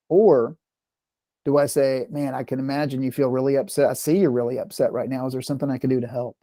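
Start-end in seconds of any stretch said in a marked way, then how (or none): 2.1-6.4 softer, gentle reassurance; calm and caring. Retold or imitated. Parent calming an upset daughter, soft and reassuring. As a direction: soothe her quietly, like you mean it. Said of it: "that's a really different interaction".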